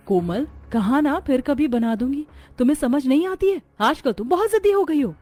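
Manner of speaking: put-on a mother losing patience with a stubborn child; scolding. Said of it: "आप कोमल को क्यों डांट रही हो?". (झुंझलाई माँ की डाँट, ऊँची होती हुई)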